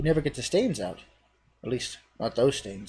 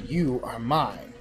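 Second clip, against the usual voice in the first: slow, menacing possession; cheese deity; slower than usual. Acted. Cheese to the hero, slow menacing correction. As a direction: draw it out like the cheese owning you. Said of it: "No, finally".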